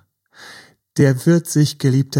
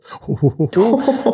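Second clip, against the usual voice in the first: real laugh; 8 semitones higher, 4 dB louder than usual. Real, not acted. Laughs at own joke.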